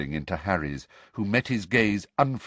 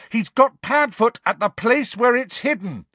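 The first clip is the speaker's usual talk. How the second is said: loud, higher urgent shout; desperate shout; 14 semitones higher, 6 dB louder than usual. A narrator's reading. Harry shouting the warning to Snape, loud. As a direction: call it out urgently. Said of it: "he shouted".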